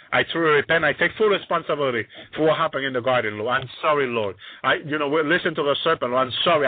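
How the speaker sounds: acted confession, understated and earnest; heartfelt apology in a subdued voice; sincere prayer. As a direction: own up humbly to the Lord. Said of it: "sincere prayer from his heart".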